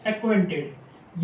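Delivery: एक्वेंटेड said slowly, syllable by syllable; slow model word. Shown as a demonstration. Teacher modelling the finished word for the class, slow. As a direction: draw out एक्वेंटेड so students can copy it. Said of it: "कैसे बनाएंगे इसको हम".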